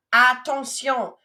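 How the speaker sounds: slow, loud Attention; teacher's mock alarm; French warning word. Shown as a demonstration. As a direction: say Attention slowly and firmly as a warning.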